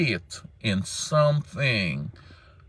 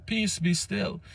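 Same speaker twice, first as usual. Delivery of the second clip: hushed quote; 8 semitones higher, 7 dB quieter, slower than usual. Acted. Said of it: "King James and them say".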